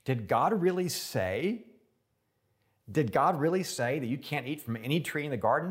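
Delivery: twist the words with false wonder; serpent twisting God's word. Retold or imitated. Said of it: "He perverts God's word".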